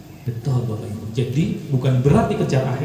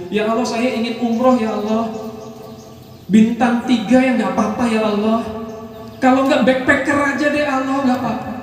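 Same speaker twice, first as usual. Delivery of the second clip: a small, hesitant ask, settling for less; timid half-hearted prayer; 8 semitones higher than usual. Retold or imitated. Praying timidly for a cheap umroh, a touch unsure. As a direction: pray like you don't dare ask for much. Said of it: "doanya mintanya nanggung".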